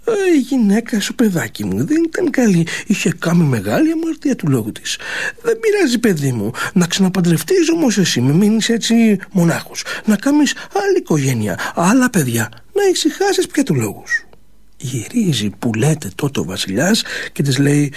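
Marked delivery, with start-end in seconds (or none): 5.4-14.3 a lightly voiced worried old mother; mild old mother's warning. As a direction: warn him gently like a fretting mother.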